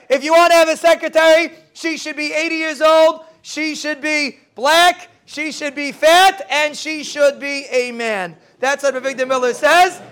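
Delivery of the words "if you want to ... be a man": slow emphatic quote. Retold or imitated. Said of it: "Like Rebbe Avigdor Miller says".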